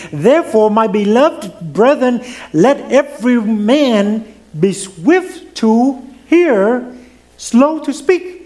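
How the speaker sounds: scripture reading. Acted. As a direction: read the verse out with weight.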